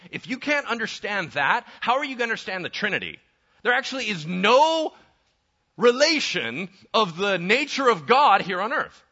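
loud, high-pitched urgent challenge to the congregation; fired-up pulpit voice; impassioned preaching. Real, not acted. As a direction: preach it at full force, hammering each question. Preaches at rising full force.

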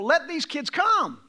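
the same words preached out to the church; preached paraphrase. Shown as a demonstration. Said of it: "he said, first of all".

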